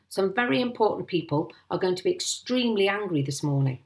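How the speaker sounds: lightly voiced blustering Mister Hazel; angry landowner. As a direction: threaten the sergeant with his superiors.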